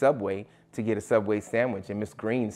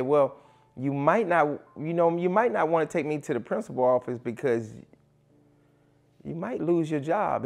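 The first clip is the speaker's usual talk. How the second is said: higher-pitched retold student warning; veiled threat; 6 semitones higher than usual. Student warns coach about his job, veiled threat. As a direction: act out a cocky kid's warning, pitched up.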